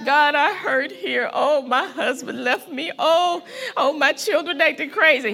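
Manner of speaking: lightly voiced complainer; a hint of self-pity; mock whiny believer. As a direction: imitate a moaning churchgoer.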